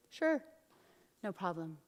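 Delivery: acted sweet compliance, hushing away; coaxing. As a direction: lull him to sleep, sinking into a whisper. Jael coaxes the warrior to sleep.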